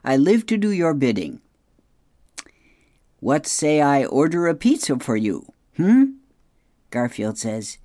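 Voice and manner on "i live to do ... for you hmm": lightly voiced obedient device; higher, eager-to-serve comic voice; servile smart speaker. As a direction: offer service to your overlord.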